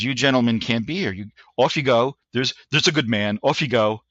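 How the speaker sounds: put-on light British accent, polite but firm; a mild stereotype British officer shooing them off. Sergeant major dismissing the Russian spies in a stereotype British accent. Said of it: "a stereotype British accent".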